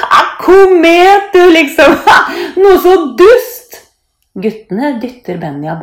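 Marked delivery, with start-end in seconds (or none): 0.1-3.8 high, loud scornful jeering with laughs; mocking laughter. A narrator's reading. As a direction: laugh at him as you ridicule him. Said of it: "Guttene ler høyt". (hånlig, høy latter)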